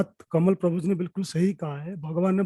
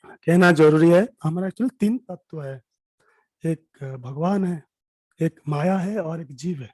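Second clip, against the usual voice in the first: hoarse voice; 4 dB louder than usual. Real, not acted. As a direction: push words through a hoarse throat. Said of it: "मेरा गला बैठा हुआ है".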